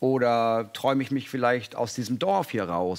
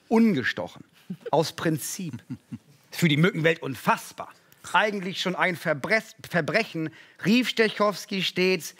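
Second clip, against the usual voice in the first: lively rhyming read-aloud; storyteller voice for a rhyming children's book; story reading; 3 semitones higher than usual. Acted. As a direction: read the rhymes to an audience with bounce. Reads rhyming picture book aloud.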